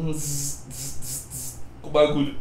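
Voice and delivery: soft imitated tattoo-machine buzz; quiet mock buzz of the machine; buzzing needle noise. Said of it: "E ele assim, ó".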